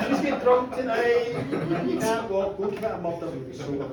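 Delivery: chuckling through a jokey tip; laughing aside. Real, not acted. Storyteller joking with listeners, laughing. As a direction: laugh while giving silly advice.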